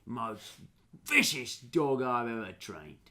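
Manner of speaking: slow, emphatic dog trainer; lightly put-on ranger's boast; lightly voiced boasting ranger. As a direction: savour each superlative slowly.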